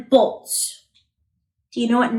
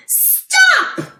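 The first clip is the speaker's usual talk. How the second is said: sudden high shout of stop. Pretend. Voicing Carter telling the truck, a high shouted stop. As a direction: yell it to halt the truck. Child's call acted out.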